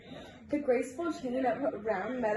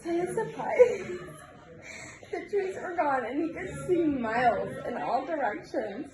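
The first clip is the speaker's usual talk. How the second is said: reading through giggles; can't stop giggling while reading; 3 semitones higher than usual. Real, not acted. Reader giggles through a story.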